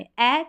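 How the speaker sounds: ए as the open vowel starting "apple"; short A sound. Shown as a demonstration. Teacher showing the short vowel in apple, open ए. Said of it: "ये short उच्चारण है".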